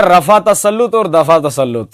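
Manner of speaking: रफ़ा and दफ़ा ending in a, no linking e; imitated mispronunciation. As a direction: mimic रफ़ा and दफ़ा without the -e link. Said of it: "हजरत इन दोनों लफ्जों को पढ़ते हैं".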